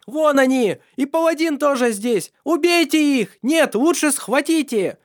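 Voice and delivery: very high, loud shrieking orders; the king's daughter screeching at her men. A narrator's reading. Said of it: "визжала королевская дочь".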